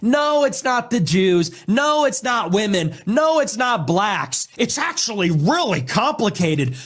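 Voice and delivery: high, sing-song mocking voice; mocking imitation. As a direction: imitate the whiny excuses. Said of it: "They're always coming up with".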